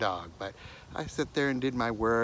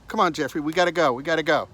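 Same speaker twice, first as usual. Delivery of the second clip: urging call; 8 semitones higher, 12 dB louder, faster than usual. Retold or imitated. Urging stubborn dog upstairs.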